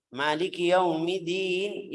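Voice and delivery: slow Maliki Yaumiddin, dd held; doubled d. Shown as a demonstration. Teacher models Yaumiddin with tasydid. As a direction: hold the dd in Yaumiddin. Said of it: "Ini lihat dalnya".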